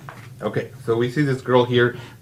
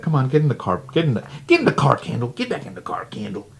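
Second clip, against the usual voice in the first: raised, pleading calls; calling him back; 3 semitones higher, 4 dB louder, faster than usual. Retold or imitated. Brandon calling Kendall back to the car, raised voice. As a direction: call her back into the car, louder. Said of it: "He's like".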